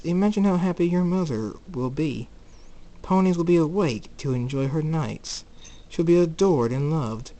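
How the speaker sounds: lightly voiced high-pitched tempter; coaxing villain. Saturday tempts Jacob with his mother's happiness, coaxing. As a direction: lift the voice a little to entice.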